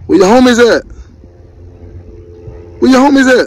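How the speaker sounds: high, sing-song voice for the dog; high playful pet voice; dog talk. Real, not acted. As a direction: coo at the pup like a buddy. Talking to the dogs again.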